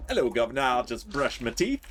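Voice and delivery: hammed-up British accent; lightly put-on British stereotype voice; mock British accent. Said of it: "fix the British stereotype".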